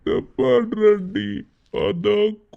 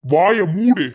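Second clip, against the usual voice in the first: angry shout; 6 dB louder, much slower than usual. Acted. Uncle shouting at the principal to shut up. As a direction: cut him off with a loud order.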